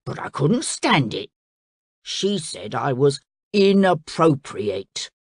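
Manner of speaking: a blunt beast owning up; crocodile. Acted.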